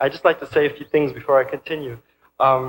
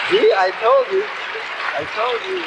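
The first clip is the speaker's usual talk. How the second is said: put-on much higher, far-off old lady voice; gloating old grandma. Grandmother gloats at her grandson from the audience, high old voice. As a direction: crow it like a triumphant grandma.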